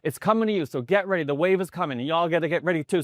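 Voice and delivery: high, urgent call to get ready; excited heads-up. Retold or imitated. Kid running along the stands, excited warning.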